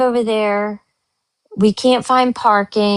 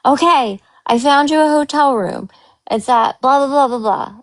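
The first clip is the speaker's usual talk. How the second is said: higher, bright customer-service voice; mock the cheerful phone agent; chirpy agent; 5 semitones higher than usual. Phone agent promising a room, mock-chirpy. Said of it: "they kept saying".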